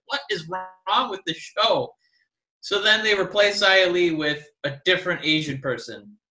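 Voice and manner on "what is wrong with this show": slow, incredulous complaint; exasperated. Retold or imitated. Fan pulling hair out over the show, exasperated. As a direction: spell out your bafflement word by word. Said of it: "making me pull my hair out".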